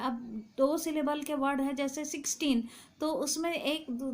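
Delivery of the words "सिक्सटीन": "सिक्सटीन" with weight on the second part; second-syllable stress. Shown as a demonstration. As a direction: lean on the ending of "सिक्सटीन". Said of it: "दूसरे part में ज़्यादा दिया जा रहा है". ("सिक्सटीन" के दूसरे हिस्से पर ज़ोर)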